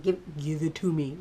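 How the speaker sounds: through clenched teeth; gritted teeth. Retold or imitated. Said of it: "teeth gritted".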